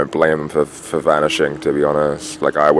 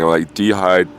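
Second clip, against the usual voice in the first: high, slow, louder put-on voice; delirious; 6 semitones higher, 6 dB louder, slower than usual. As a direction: drag it out like you're half delirious. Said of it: "I'm kinda delirious".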